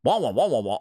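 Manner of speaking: lightly imitating Charlie Brown teacher; a hint of muffled trombone talk; muffled wah wah talk. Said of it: "starting to sound like the".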